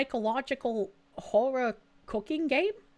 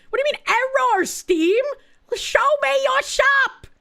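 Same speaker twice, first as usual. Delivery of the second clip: higher, louder exasperated demand; second take, more fed up; louder exasperation; 11 semitones higher, 6 dB louder than usual. Real, not acted. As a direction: call out Steam for the error. Steam store still failing.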